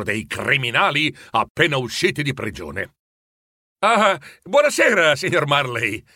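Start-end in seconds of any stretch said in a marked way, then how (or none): 3.8-6.0 a higher, deferential gentleman's bow of a greeting; reverent greeting. Acted. Visiting gentleman respectfully greeting the old miser, reverent greeting. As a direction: greet him with respectful politeness. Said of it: "lo salutò il primo con reverenza".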